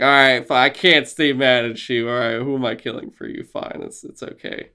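mock-resigned, trailing to a murmur; grudging surrender. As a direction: cave in reluctantly. Acted player giving in, fading off.

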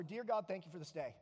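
low, perfunctory mock prayer; glossed-over prayer. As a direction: skim through it like a routine grace. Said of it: "we gloss over".

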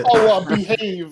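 put-on Austin Powers catchphrase in a Boston accent; playful Boston-accented tease; mock Boston accent. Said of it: "what you think a Boston accent sounds like".

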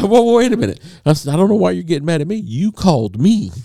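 hammed-up outrage on the phone; mock indignant. Retold telemarketer argument.

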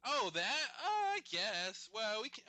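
high, hesitant, half-interested; reluctant shrug. Retold or imitated. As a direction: agree without any enthusiasm. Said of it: "Then I was like".

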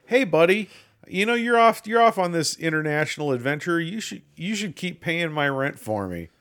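high, loud mock-friendly pitch; smarmy buddy. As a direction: sweet-talk him into paying. Voicing brother asking for rent.

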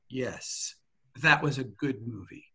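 soft, measured quoted answer; hushed, considered agreement, acted out; quiet sincere reply. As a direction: imitate a star's understated approval, starting very quietly. Movie star's considered answer acted out.

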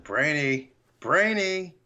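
mock exasperated name-calling; mounting anger. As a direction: imitate losing patience, building on each call. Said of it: "you don't see Papa Smurf get angry".

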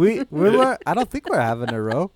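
put-on Irish accent, starting high and loud on we were; a comic Irish movie line; playful Irish accent. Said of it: "Say your other line".

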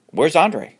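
high, loud urgent question; worried. Acted. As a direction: ask urgently. Alan asks, worried.

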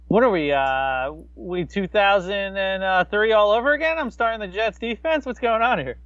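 playful bewilderment, rising questions; mock disbelief. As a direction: pitch it up as if baffled by yourself. Acts out own disbelief.

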